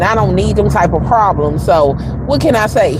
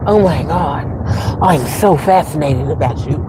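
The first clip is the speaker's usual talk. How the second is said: mock gushing coworker; 6 semitones lower than usual. Quoting the coworker who fawns over her, mock gushing. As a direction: lightly mimic a starstruck coworker. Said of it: "to be like".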